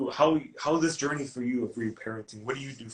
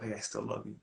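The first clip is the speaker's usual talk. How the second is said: put-on calm a scared kid inside you; soothing; 6 dB quieter than usual. Shown as a demonstration. Coach shows Michelle how to soothe yourself, soft and reassuring. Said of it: "that's what I consider soothing".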